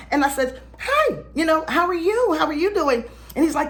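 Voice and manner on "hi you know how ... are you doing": polite greeting. Retold or imitated. Greeting the man who called.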